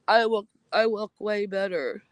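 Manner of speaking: mock snooty mimic of a rival bragging; mocking a jealous streamer's boast. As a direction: sneer it like a jealous rival showing off. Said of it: "Say, like, jealous".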